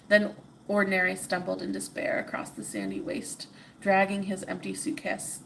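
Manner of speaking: steady storybook reading; story narration. A narrator's reading. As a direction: read it like a bedtime tale. Reads the story aloud.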